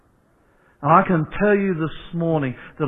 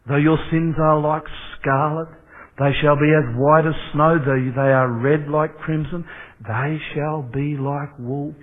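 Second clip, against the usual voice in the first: solemn, measured scripture with the last line slowed; scripture reading. Acted. Pastor proclaiming Isaiah to the church, solemn.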